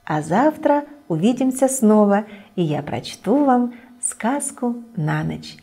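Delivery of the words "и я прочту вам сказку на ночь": plain reading voice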